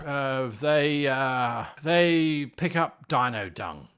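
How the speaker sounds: slow, unsure, groping for an answer; hesitant player. Retold or imitated. Player unsure of their character's job, slow hesitation. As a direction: drag it out like you have no idea. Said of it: "when the player says".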